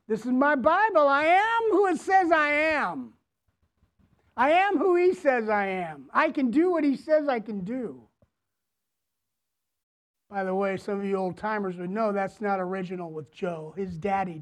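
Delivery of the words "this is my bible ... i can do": imitating Joel Osteen. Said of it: "Joel Osteen loves to raise the Bible and says".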